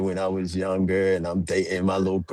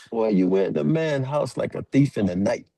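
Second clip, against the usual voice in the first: imitating a father's telling-off; higher-pitched mock reprimand; scolding; 4 semitones higher than usual. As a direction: scold like an exasperated dad. Retells dad scolding him.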